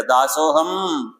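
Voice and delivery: "దాసోహం" drawn out very slowly; slow reverent utterance. Shown as a demonstration. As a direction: savour "దాసోహం" syllable by syllable. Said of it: "మొదటి పదాన్ని చెప్పారు". ("దాసోహం" చాలా నెమ్మదిగా)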